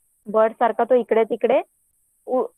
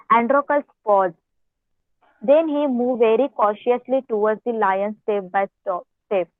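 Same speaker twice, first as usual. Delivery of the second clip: reading the story aloud very slowly, word by word; much slower than usual. Acted. Teacher reads the English story to her class in a slow reading voice. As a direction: read each phrase out slowly so the pupils can follow.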